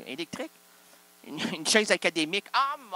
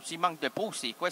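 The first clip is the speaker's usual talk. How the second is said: normal talking voice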